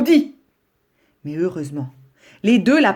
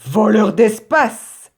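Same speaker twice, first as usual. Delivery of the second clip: shouted retort; 3 semitones higher, 6 dB louder, much slower than usual. Acted. Grisou shouts back in quarrel.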